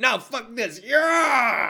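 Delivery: emphatic, high, loud, dead-sure, "yeah" drawn out. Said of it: "says it like it's the truth".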